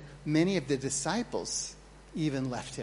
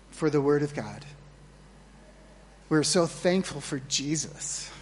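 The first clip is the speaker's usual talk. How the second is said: louder, earnest pulpit prayer; closing prayer; 3 dB louder than usual. Acted. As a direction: pray over the congregation, fervent.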